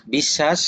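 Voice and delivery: বিশ্বাস said "bishshash" with a long double sh; doubled consonant demo. Shown as a demonstration. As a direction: hold the sh in বিশ্বাস as a teaching example. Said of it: "তাহলে দুইবার উচ্চারণ করাবে". (বিশ্বাস শব্দে শ দুইবার উচ্চারণ)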